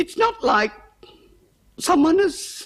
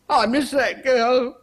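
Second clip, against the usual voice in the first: tearful. Acted. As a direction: hold back a sob. Cook grieving the dead maid.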